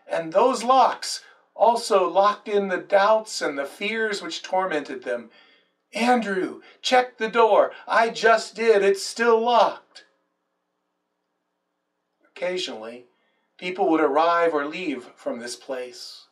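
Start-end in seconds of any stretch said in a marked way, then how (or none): 5.9-10.0 anxious, hushed worried voices; a lightly voiced frightened disciple; fearful disciples. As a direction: sound nervous behind the locked door. Disciples fearful behind locked door.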